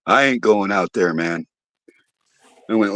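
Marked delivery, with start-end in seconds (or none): 0.1-1.4 low, quiet, uneasy refusal; a nervous partygoer refusing to go out; spooked guy. Retold or imitated. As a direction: drop the voice, scared to go back. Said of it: "some guy sitting over in the chair says".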